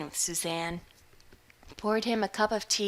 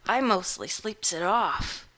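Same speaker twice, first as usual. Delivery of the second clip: put-on rough old countryman; 4 dB louder than usual. Hungover tramp explains himself.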